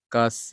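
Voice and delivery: कस said very slowly, held; slow syllable demo. Shown as a demonstration. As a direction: draw out कस to show the half sound. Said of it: "इसमें आधा उच्चारण हो रहा है".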